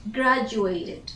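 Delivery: "Graduated" with a clear final "id"; "Graduated", last syllable fully sounded; pronounced -ed ending. Shown as a demonstration. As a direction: say "Graduated" as a careful model word. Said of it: "that becomes graduated".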